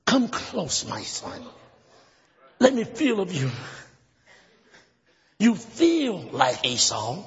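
slow, halting lines with long pauses; lightly voiced doubting father. Plays father testing his son.

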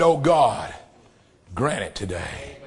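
low, soft hushed prayer; preacher quietly praying for the church; hushed plea. Acted. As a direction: let the prayer sink to a murmur. Prayer drops to a hush.

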